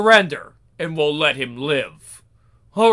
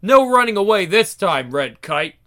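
right voice; 5 dB louder than usual. Shown as a demonstration. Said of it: "I, I did the wrong voice".

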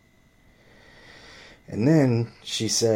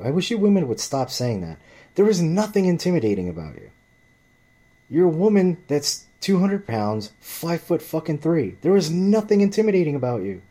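raised, higher-pitched heated rant; retold shouting rant, raised and high; angry retold rant; 8 semitones higher, 4 dB louder than usual. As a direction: blast her with it, voice pitched way up. Ranting retold rant at the woman.

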